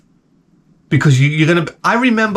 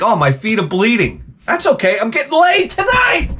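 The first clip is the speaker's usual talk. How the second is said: mock youthful elation; 6 semitones higher than usual. Imagined young man shrugging off bleeding feet, elated. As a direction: pitch leaping high by the end.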